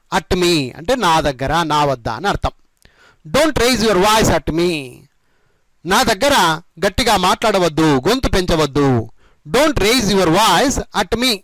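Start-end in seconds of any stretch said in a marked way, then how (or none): 3.2-4.7 slowly, each word separate; slow model sentence. Shown as a demonstration. Teacher demonstrating the phrase to learners, slow and careful. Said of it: "ఈ విధంగా చెప్పండి". 9.4-11.3 slowly, each word separate; slow model sentence. Shown as a demonstration. Teacher demonstrating the phrase to learners, slow and careful. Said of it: "ఈ విధంగా చెప్పండి".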